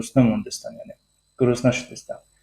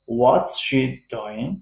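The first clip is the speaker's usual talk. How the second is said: "what's" high, "doing" lower, said slowly; high start, low ending; much slower than usual. Shown as a demonstration. Teacher recaps the WH tune for learners, high then low. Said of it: "بلند تلفظ شد".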